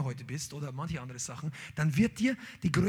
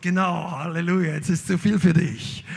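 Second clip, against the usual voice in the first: God's voice; 7 dB louder than usual. Acted. Voicing God in the sermon.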